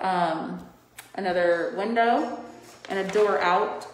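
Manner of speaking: muffled behind a mask; talking through a face mask. Real, not acted. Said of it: "I don't know if you guys can hear me through this mask".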